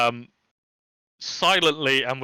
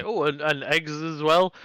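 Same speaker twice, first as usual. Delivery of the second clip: slow, offhand "Oh, and, and eggs as well"; casual afterthought; 3 semitones higher, slower than usual. Acted. GM repeats the player's afterthought to the hobgoblin, offhand. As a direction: toss it over your shoulder, slowly. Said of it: "turn back around and say".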